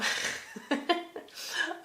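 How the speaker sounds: real breathy chuckle; soft laugh. Real, not acted. Laughing fondly over her own art page, soft chuckle. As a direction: give a soft, airy little laugh.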